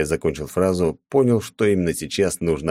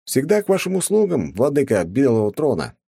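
театрально; 9 semitones higher than usual. A narrator's reading. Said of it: "театрально поклонился".

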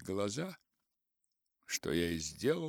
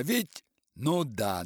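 usual speaking voice

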